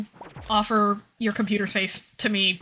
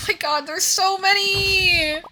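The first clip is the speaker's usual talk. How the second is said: laugh-crying; 8 semitones higher, slower than usual. Real, not acted. Overwhelmed laugh-cry.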